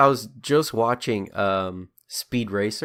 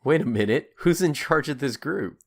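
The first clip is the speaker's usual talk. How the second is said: raised, louder puzzled double-take; mock sudden realisation; 4 semitones higher, 4 dB louder than usual. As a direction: play a viewer suddenly catching the problem. Acts out a viewer suddenly realising.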